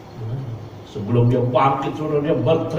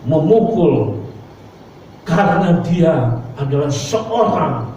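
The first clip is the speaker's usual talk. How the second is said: put-on child pleading; 3 semitones higher, slower than usual. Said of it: "anaknya berkata kepada ibunya".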